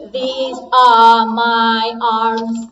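slow, loud robot voice. Shown as a demonstration. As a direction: spell it out like a robot. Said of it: "change your voice with your voice robot".

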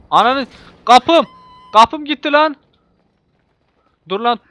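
high, loud outraged yelling; real furious yell; furious shout. Real, not acted. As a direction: scream at the loss of the door. Car door ripped off.

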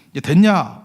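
loud, mock-impatient question; dismissive retort. Taxi driver to the angry man after fixing the mirror, dismissive.

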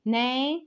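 نا sounded out alone; syllable by syllable. Shown as a demonstration. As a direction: clap out نا as a beat. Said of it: "زي كلمة banana". (نطق المقطع نا منفصلاً)

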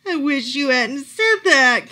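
slow, groaned complaint; groaning. A narrator's reading. Camilla groans at the therapist's advice, slow and pained. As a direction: drag it out in a dismayed groan. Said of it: "Camilla groaned".

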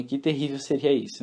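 usual speaking voice

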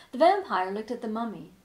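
usual speaking voice

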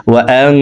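ওয়া আং with the ng held in the nose; ওয়া আং ending on a sustained hum; nasal ghunnah. Shown as a demonstration. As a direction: hide the n of আং in a long nasal hum. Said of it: "নাকের ভিতরে লুকাইয়া গুন্নার সহিত পড়তে".

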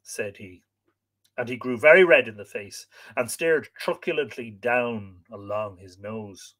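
lively, dramatic read-aloud; expressive storyteller with acted dialogue; story narration. A narrator's reading. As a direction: read the tale with wide swings of pitch.

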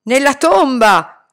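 slow, loud howl. Acted. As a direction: wail it out. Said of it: "ululò la padrona".

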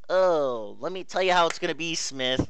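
a hint of cocky swagger, quick; lightly mocking a big-talking squadmate; faintly imitated tough talk, fast; tough-guy Harris. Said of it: "Harris acts like he's a big boy".

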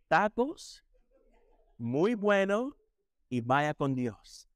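lightly hammed-up beginner Spanish, slowing at the end; mock broken Spanish. Preacher teasing Brother Bobby's Spanish, lightly hammed-up. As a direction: tease a friend who barely speaks Spanish. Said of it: "He'd probably say".

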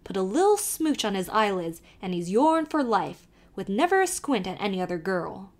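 put-on lively Irish accent, calling to the horse; old Irish driver calling out; Irish carter. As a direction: urge the nag on in a brogue. Kelly explains the charm.

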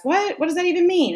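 high, indignant comeback; defensive. Acted. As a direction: fire back as if starting an argument. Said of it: "it turns into this argument".

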